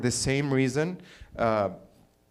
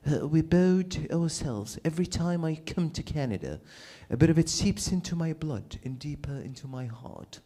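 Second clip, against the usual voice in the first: mock French accent; 8 dB quieter than usual. Mock speech by the king.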